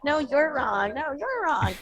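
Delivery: smiling, drawn-out sing-song contradiction; smiling disagreement. Retold or imitated. Both sides civilly disagree with each other, playful smiling tone. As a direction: argue good-naturedly, smile in the voice. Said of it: "smiling and like".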